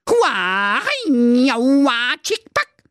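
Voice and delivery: high, loud martial-arts yells; karate battle cries. Acted. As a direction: shout each strike like a karate fighter. Karate fight against the wolf. (laute Karateschreie)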